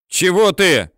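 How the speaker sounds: high, loud shout at a comrade; angry yell. A narrator's reading. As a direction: bark at him to move. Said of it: "орёт на него Теренчук".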